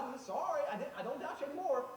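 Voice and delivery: laughing apology. Acted.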